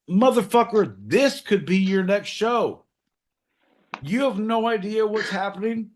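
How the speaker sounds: high-pitched mock indignation; exasperated mentor. Mentor telling John this could be his show, high mock indignation. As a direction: lecture him with hammed-up disbelief.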